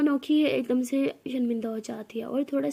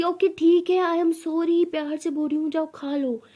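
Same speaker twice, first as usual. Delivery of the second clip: raised, insistent sorry; loveless apology; 4 semitones higher, 4 dB louder than usual. Acted. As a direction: claim affection without sounding loving. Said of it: "अभी भी इसमें प्यार नहीं था".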